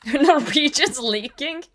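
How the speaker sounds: put-on Norwegian accent. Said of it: "I just have to say them in a Norwegian accent".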